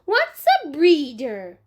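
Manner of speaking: put-on a small child explaining matter-of-factly. Fudge voiced as small child.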